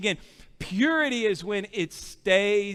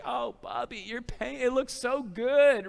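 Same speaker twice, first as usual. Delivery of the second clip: put-on softer, lilting gushing to a little child; fond praise; 3 semitones higher, 3 dB quieter than usual. Dad humouring his four-year-old painter, fond praise. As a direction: coo mock praise at your little boy.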